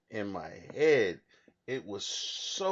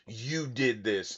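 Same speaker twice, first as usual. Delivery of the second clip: slow, lightly voiced demonic accusation; 3 dB quieter, slower than usual. Mom in his visions accusing him, lightly demonic voice. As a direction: draw it out, a hint of demon. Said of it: "this demonic voice".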